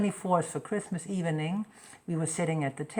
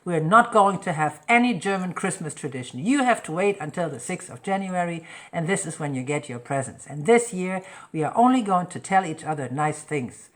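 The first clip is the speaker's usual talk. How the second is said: annoyed; 5 dB louder than usual. Retold or imitated. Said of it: "I was very annoyed".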